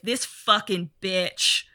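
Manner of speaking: slow, drawn-out mock resentment; mock resentful rant. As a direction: drag out each grievance, lightly hammed-up. Acting Nicholson's resentful Jack Torrance.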